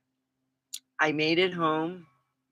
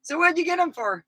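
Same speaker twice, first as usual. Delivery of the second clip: imitating him; 14 semitones higher than usual. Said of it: "he goes".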